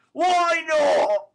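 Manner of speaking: loud, high snapped question; a rough man's angry question; angry demand. Acted. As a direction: throw it back at her. Sikes shouting at Nancy.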